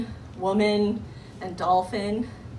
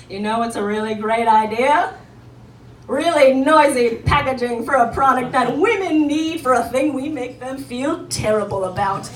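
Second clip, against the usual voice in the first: a hint of a smug boardroom executive, a bit louder; mock executive; 7 dB louder than usual. Executive pitching noisy packaging in the boardroom, smug. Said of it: "white male executive ... was like".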